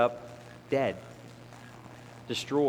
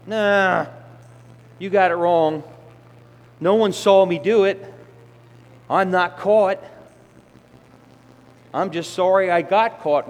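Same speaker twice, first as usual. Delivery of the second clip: louder, brushing it off; a sinner waving off the Spirit; defiant excuse; 2 semitones higher, 6 dB louder than usual. Acted. Sinner answering the Holy Spirit with loud defiance.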